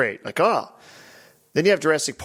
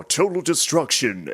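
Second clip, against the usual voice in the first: slow, lightly voiced game narrator; mildly theatrical slow call-out; narrator imitation; 2 semitones higher than usual. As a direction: announce it slowly like a game narrator. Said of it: "it's the narrator guy".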